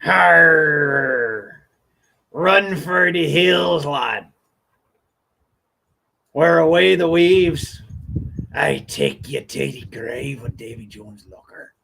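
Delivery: lightly voiced growly-free hammed pirate. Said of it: "they didn't talk like that".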